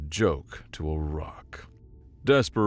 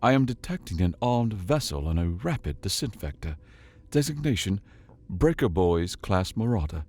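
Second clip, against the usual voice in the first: calm AI voice. Acted. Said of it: "calm as ever inside his head".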